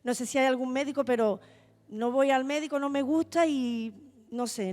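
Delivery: más alto y agudo, rechazando con fuerza; negativa enfática. Retold or imitated. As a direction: cuenta cómo se negaba, subiendo la voz. Insistiendo en que no irá al médico. (se niega a ir al médico, voz alzada)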